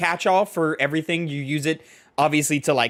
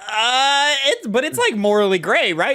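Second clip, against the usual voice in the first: higher, unsure, probing question; hesitant doubting quote; 9 semitones higher, 4 dB louder than usual. Retold or imitated. Speaker doubting the company's offer, hesitant and higher. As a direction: raise a timid moral doubt.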